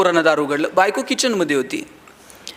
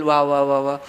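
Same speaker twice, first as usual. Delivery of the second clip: low, mocking wife's welcome at midnight; wife mocking a husband who comes home at midnight, sarcastic; 8 semitones lower than usual. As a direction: drip sarcasm as the annoyed wife. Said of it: "असं होतंय का?".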